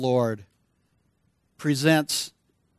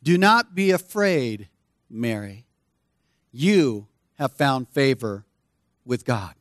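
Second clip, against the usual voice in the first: slow, gentle, deliberate; slow reassurance; 3 semitones lower than usual. Shown as a demonstration. Preacher rereading the angel's words to Mary, slow and tender. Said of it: "Listen to those words again".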